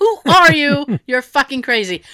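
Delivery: acted-out exasperated outburst; hysterical. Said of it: "I was actually hysterical".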